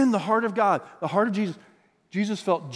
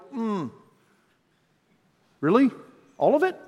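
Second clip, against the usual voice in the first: rising higher to an incredulous all of it; reluctant disbelief; 4 semitones higher than usual. Retold or imitated. Pastor voicing a believer hearing Jesus ask for everything, incredulous. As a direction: balk at the request, lightly mocked. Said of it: "How many might go".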